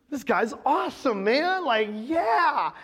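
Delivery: lightly acted woozy, happy patient; mock drugged bliss. Sedated patient praising the dentist, blissfully woozy. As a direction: drag it out like the medicine is working.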